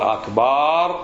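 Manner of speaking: أكبر with a long last vowel, "akbaaar"; forbidden akbaar. Shown as a demonstration. Teacher showing what not to say, stretched akbaar. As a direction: drag out the "baar" of أكبر. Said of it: "ولا تقول".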